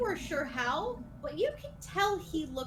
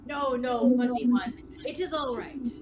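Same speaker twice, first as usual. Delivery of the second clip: lightly voiced lofty knight, louder; condescending skeleton knight; 5 dB louder than usual. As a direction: talk down firmly to a riled beast.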